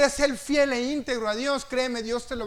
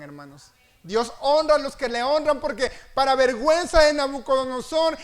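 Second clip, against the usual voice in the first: loud, driving sermon voice; full-voiced preacher building up; fiery preaching; 3 semitones higher, 6 dB louder than usual. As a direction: preach it out with force.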